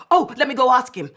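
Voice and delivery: fast, loud, high blurt. A narrator's reading. Girl blurts out the truth to the landlord, fast and loud. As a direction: let it tumble out too fast. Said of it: "she blurted out".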